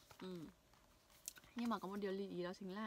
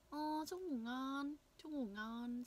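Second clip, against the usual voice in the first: slow, higher, friendly goodnight; 4 semitones higher, much slower than usual. Shown as a demonstration. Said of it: "Dạng thân thiết". (chúc ngủ ngon thân mật)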